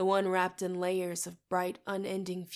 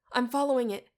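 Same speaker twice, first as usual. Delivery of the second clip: excited; 5 semitones higher, 7 dB louder than usual. A narrator's reading. Mariah excited in trance.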